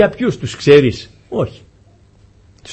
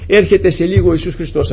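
raised, emphatic sermon voice; impassioned preaching; 3 semitones higher, 3 dB louder than usual. Real, not acted. Preacher promising believers an end to pain, impassioned. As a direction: preach it with rising force.

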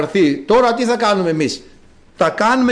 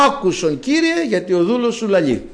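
mock demand; 3 semitones higher than usual. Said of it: "Εμείς τρέχουμε, φωνάζουμε".

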